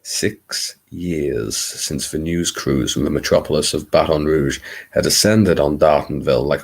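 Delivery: attempted American Southern storyteller; Bayou Babe accent. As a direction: narrate in a put-on Louisiana accent. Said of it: "my attempt at a Bayou Babe".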